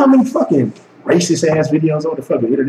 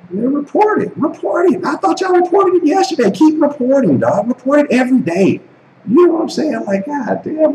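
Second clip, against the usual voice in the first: much higher, mocking dare to report; taunting rant. Real, not acted. Daring critics to report video.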